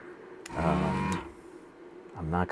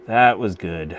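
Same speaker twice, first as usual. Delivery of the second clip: louder, a proud repeat; pleased emphasis; 5 dB louder, slower than usual. Real, not acted. Streamer repeats her praise of the joint, louder and proud. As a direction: say it again with more punch.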